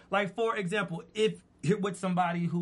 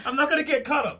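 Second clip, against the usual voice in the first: laughing; 8 semitones higher, 4 dB louder, faster than usual. Real, not acted. Laughing denial.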